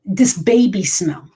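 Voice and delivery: a slow whispered phrase. Real, not acted. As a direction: breathe the words out slowly in a whisper. Fond memory of smelling her babies.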